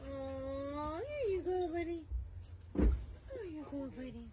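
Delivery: excited praise. Real, not acted. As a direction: cheer the dog on brightly. Praising dog taking food.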